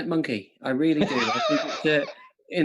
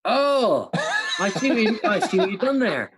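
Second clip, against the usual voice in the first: surprised laugh; 5 semitones higher than usual. Real, not acted. Penny drops on a pun.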